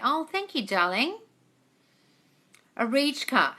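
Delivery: ordinary talk, nothing marked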